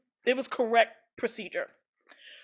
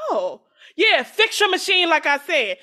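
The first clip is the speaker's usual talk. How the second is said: louder, pushy mock customer; hammed-up give me my hair demand; 4 semitones higher, 5 dB louder than usual. Customer at the counter demanding her hair back, loud and pushy.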